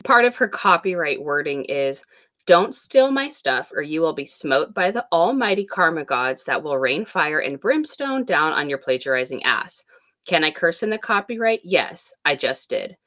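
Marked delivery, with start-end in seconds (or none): 2.5-9.8 megaphone voice. Pretend. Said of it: "Back to megaphone voice".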